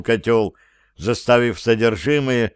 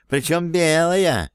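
cat voice; 6 semitones higher, slower than usual. A narrator's reading. Кот продолжает реплику.

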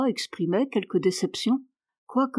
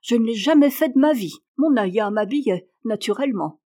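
indignant; 3 dB louder than usual. Acted. Girl telling the maid she never dressed herself, indignant. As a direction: rattle it off offended. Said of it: "avec indignation".

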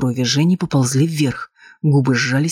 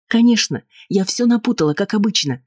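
sarcastic, pitched higher; 8 semitones higher than usual. A narrator's reading. Wife answering her husband with biting sarcasm. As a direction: sneer it out, mocking his doubt. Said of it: "язвительно отозвалась Полина".

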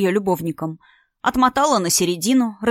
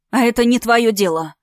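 angry; 3 semitones higher, 3 dB louder than usual. Acted. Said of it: "разозлилась Алина".

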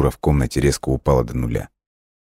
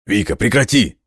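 desperate shout; 7 semitones higher than usual. A narrator's reading. Someone cries to Vika to stop, desperate shout. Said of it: "Этот отчаянный крик".

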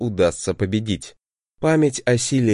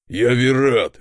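angry roar; 3 dB louder, slower than usual. A narrator's reading. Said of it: "проревел он так".

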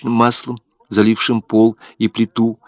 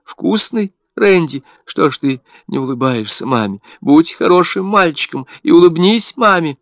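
crazed cooing; 8 semitones higher, 3 dB louder than usual. A narrator's reading. Mother cooing at dead baby.

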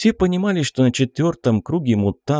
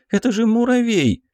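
scornful; 13 semitones higher than usual. Acted. Belka scoffing at the ant.

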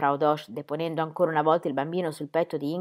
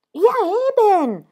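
louder, higher indignant snap; 10 dB louder than usual. A narrator's reading. Midwife indignant at the mother's silence, indignant. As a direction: bristle with indignation. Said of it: "disse Frau Dosch con indignazione".

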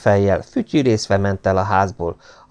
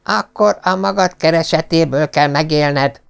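put-on stern old lord, pitched higher, snapping; barked order; 8 semitones higher than usual. A narrator's reading. Lord Travers snapping at Pet about earning a living. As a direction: bark it at the son. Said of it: "rivolt rá Lord Travers".

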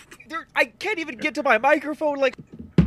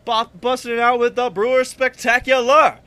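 lower, swaggering bro voice; dude bro; 3 semitones lower than usual. Acted. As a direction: brag like a club bro. Plays a club-going bro.

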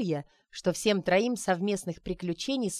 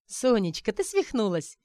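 весело; 3 semitones higher than usual. Acted. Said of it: "весело ухмылялась Арина".

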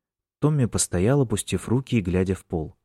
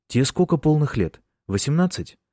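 alarmed question; 7 semitones higher than usual. A narrator's reading.

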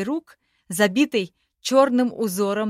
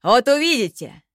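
excited promise; 4 semitones higher, 7 dB louder than usual. A narrator's reading. Nanga vows.

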